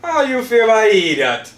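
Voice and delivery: high, loud shocked laughter; laughing out the words in disbelief. Real, not acted.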